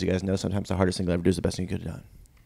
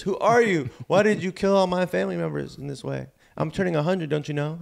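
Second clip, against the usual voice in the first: put-on distraught old woman; 8 semitones higher than usual. Old woman confronts her family's killer, high and distraught. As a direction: play the aggrieved old lady, pitched way up. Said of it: "She goes".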